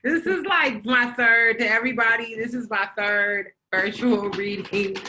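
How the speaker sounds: talking through a laugh; loud, laughing start that settles down; amused laughter. Real, not acted. Poet greets online audience at her third virtual reading, laughing.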